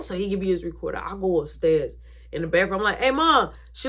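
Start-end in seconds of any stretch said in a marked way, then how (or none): 3.0-3.5 raised, louder call to mom; acted casual holler. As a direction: call through a door to your mother. Calling to mom through bathroom door.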